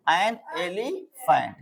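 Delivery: very slow, each word drawn out; stretched teacher demo; slow drilled phrase. Shown as a demonstration. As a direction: spell it out slowly for the class.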